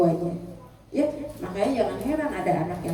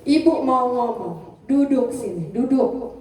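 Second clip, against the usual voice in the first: gentle invitation; slower than usual. Shown as a demonstration. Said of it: "pegang tangannya".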